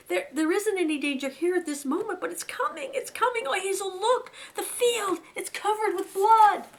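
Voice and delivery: very high, loud, near-sobbing terror; panicked crying. Acted. Fiver showing Hazel the bloody field, crying in terror. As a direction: cry out the vision, slowing on the blood.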